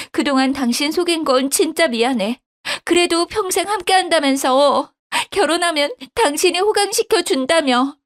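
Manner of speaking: a wife lightly voiced as sobbing; crying wife, mildly voiced. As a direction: beg your husband like a wailing child. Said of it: "엉엉 울었죠".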